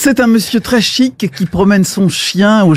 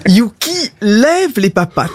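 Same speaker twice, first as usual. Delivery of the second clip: "Yuki lève les papates" with a raised, coaxing lilt; dog command. Acted. Owner showing a trick, lilting command.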